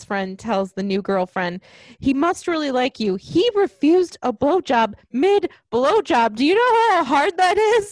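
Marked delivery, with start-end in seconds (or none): 2.0-7.9 loud, high-pitched disbelief; emphatic movie quote. Acted. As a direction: act out the friend, drawing out the key words. Acting out friend's emphatic movie line.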